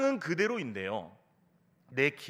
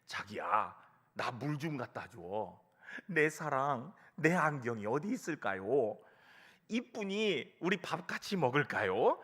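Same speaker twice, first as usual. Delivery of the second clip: gently voiced doting old husband, starting low; lightly acted, tender pet-name calling; affectionate calling; 3 semitones lower than usual. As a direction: imitate an old man sweet-talking his wife. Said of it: "얼마나 다정하게 부르는지요".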